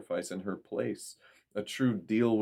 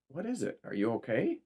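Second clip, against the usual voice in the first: worried mother; 5 semitones higher than usual. A narrator's reading. Mother voiced on the phone.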